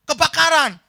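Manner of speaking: high, loud alarm; shouting. Acted. Friend answering woken sleeper, shouting fire. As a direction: cry out the emergency.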